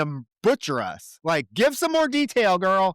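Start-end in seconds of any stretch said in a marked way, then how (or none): 1.2-3.0 exasperated. Real, not acted. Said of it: "frustrated demand".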